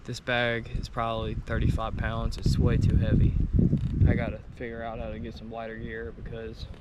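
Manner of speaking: winded, worn out and quiet; exhausted, catching breath between words. Real, not acted. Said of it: "I'm really hitting the wall".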